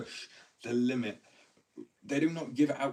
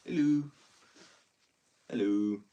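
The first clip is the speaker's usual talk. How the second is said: mock loud hello; 2 semitones higher, 8 dB louder, slower than usual. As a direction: call out like you're way too awake. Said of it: "I wanna go".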